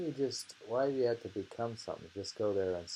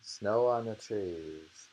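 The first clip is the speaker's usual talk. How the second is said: slow, measured poem reading; reading a haiku. Shown as a demonstration. Reading a haiku aloud to a friend, slow and measured. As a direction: read the haiku slowly, savouring each image. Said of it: "like the flowers in bloom".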